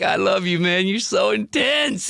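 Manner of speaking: high, shouted mock-Woody gush; imitating Woody. Woody hugging his intense friend, high mock shout. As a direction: belt it up high like a giddy friend. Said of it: "And he's like".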